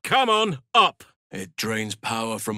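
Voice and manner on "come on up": high, loud urging cry; straining call; urgent shout. Acted. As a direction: yell to get them on their feet. Urging in combat.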